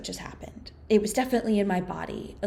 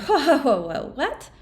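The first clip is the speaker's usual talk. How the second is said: startled whoa; 7 semitones higher, 6 dB louder than usual. Retold or imitated. Shocked reaction to indecent proposal.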